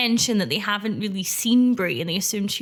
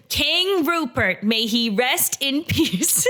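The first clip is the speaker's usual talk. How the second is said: slow, solemn tribute; solemn reverent; 3 semitones higher, much slower than usual. Retold or imitated. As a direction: intone it with grave reverence. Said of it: "They all go".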